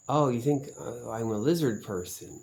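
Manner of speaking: mock his snippy accusation; bitchy mock quote. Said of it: "He gets bitchy".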